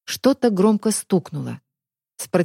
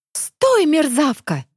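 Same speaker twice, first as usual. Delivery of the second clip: angry shout; 6 semitones higher, much slower than usual. Acted. Pursuer shouting at fugitive.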